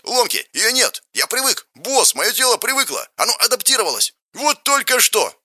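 joyful yell. A narrator's reading. The bandit yells joyfully to his boss. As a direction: burst out with delight. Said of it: "радостно заорал бандит".

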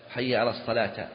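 الصلاة ending in a wrong a vowel; case-ending demo. Shown as a demonstration. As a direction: say الصلاة closed on "-ta". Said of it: "من جهة الحركات".

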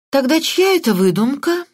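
speaking mid-yawn. A narrator's reading. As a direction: say it through a yawn. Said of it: "позёвывая".

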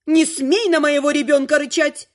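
indignant. Acted. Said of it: "встряла я".

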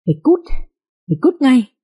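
high furious yell to get out; angry yell. Acted. Father yells at his pregnant daughter, furious shout.

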